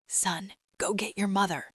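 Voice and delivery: a lightly acted stage whisper. A narrator's reading. Awestruck father leans to his son, whispering. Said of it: "leaned toward his son and whispered".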